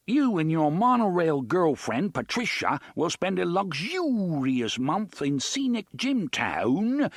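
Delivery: high, hammed-up plummy British host voice; mock posh British game-show bellow; Robin Leach bellow. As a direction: keep blaring the bogus British announcer. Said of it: "blaring Robin Leach bellow".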